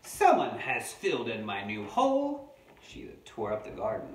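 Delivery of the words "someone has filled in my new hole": loud amateur Australian wombat complaint; attempted Australian accent. Reader voicing a wombat whose hole was filled, loud Australian accent attempt. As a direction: sound put out in lightly pretend Australian. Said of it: "not sure if this is a real Australian voice".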